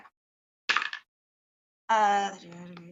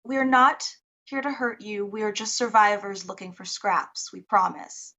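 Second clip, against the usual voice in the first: calm and kind. Acted. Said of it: "with a very calm, uh, kind voice".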